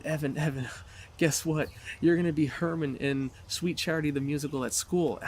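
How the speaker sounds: lifted, eager retelling of friends; excited friends. Retold or imitated. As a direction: imitate friends eagerly sharing big news. Friends break news at bedside.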